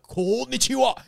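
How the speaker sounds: loud, high mock-Japanese greeting; hammed-up Japanese accent, pushed high; exaggerated Japanese accent. Student greeting his Japanese houseguest, exaggerated Japanese accent. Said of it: "in my delivery of it".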